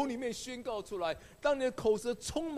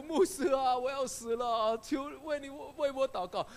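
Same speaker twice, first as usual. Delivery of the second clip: pleading; 4 semitones higher than usual. Retold or imitated. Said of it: "苦苦哀求".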